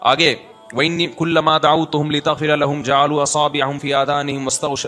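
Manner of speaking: measured, even-toned scripture recitation; Quran recitation. Acted. (تلاوت کے انداز میں)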